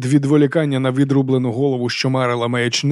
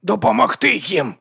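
slow, higher strained order; hoarse command; 7 semitones higher, slower than usual. A narrator's reading. Half-strangled monk repeating his order, slow and strained. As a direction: push the words out slowly. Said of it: "прохрипів брат Діас".

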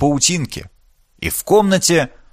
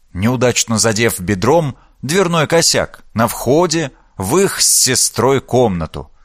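plain reading voice

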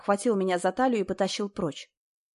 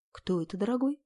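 chesty blonde voice; 4 dB quieter than usual. A narrator's reading. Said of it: "Грудной голос".

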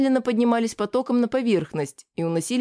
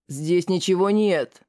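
growled; slower than usual. Acted. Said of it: "прорычал он".

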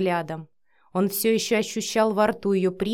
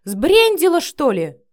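startled shout; 8 semitones higher, 9 dB louder, slower than usual. Acted. Matvey jolts awake, startled.

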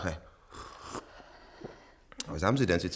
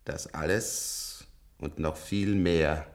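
low whisper; 4 semitones lower than usual. Acted. Old patient confesses to the nurse in a low whisper. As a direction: murmur it like a confession. Old man's hushed litany.

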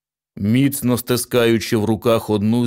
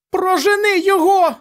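much higher, loud panicked shout; frightened cry; 5 dB louder than usual. A narrator's reading. Mother begging her husband, high panicked shout. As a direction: scream for him to banish it. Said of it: "вигукнула місіс Ді".

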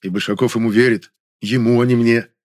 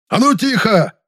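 much higher, louder bark; barked order; 13 semitones higher, 5 dB louder, slower than usual. A narrator's reading. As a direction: bark them into silence. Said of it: "рявкнул Большаков".

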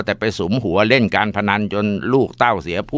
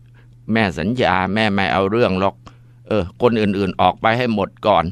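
slow calm promise. Acted. Mother promising calmly.

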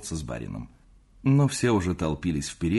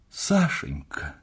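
exclaiming; 8 semitones higher, much slower than usual. A narrator's reading. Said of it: "воскликнула Анна Павловна".

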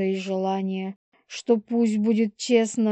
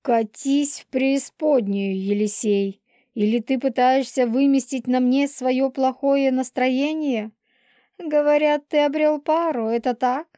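higher-pitched, scornful Polina figure; peevish pregnant she-wolf; 5 semitones higher than usual. Acted. Полина snaps at Елисей about his new mate, peevish. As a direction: voice her higher, needling him. Voices Polina quarrelling with Yelisey.

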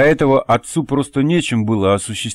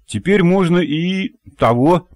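voicing the father; 7 semitones higher than usual. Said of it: "Скажет".

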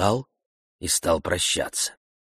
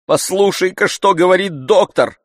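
much higher, louder scolding; irritated master, higher and louder; exasperated master; 11 semitones higher, 8 dB louder than usual. A narrator's reading. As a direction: berate the servant.

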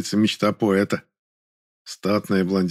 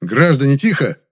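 loud, higher shout for order; loud commanding call; barking; 5 semitones higher, 5 dB louder than usual. A narrator's reading. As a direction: silence the crowd. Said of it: "гаркнул я".

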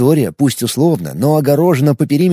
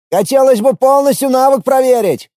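shouting while running; 10 semitones higher, 4 dB louder than usual. A narrator's reading.

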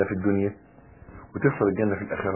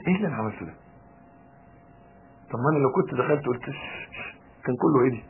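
softer voice after the row, talking to oneself; calmed-down regret; 6 dB quieter, faster than usual. Acted. Husband replaying the quarrel to himself once calm, quiet regret. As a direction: drop the volume, acting a second thought. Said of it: "لما تقعد كده وتهدى".

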